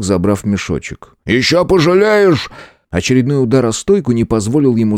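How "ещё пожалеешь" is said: threat. A narrator's reading. Innkeeper threatens the hero.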